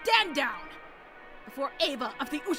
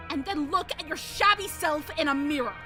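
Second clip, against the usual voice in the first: aggressive haughty noblewoman. Acted. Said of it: "she was now unimaginably aggressive".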